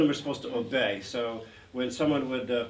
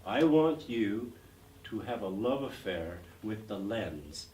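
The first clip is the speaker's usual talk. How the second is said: slow director's advice; 3 semitones lower, slower than usual. Retold or imitated. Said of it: "He says".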